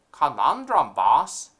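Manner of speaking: eager dim henchman; mafia henchman. Acted. Henchman speaks.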